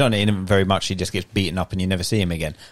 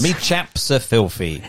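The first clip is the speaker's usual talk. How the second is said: posh cowboy; slower than usual. Pretend. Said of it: "We sound like the poshest cowboy".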